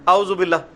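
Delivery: اعوذ with alif in place of عین, quick; عام غلطی; common mistake. Retold or imitated. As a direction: say اعوذ as people usually do. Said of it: "عام لوگ کیا پڑھتے ہیں".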